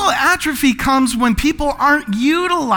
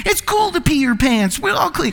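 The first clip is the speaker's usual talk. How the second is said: Billy Madison; 4 semitones higher than usual. Retold or imitated. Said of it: "He's like".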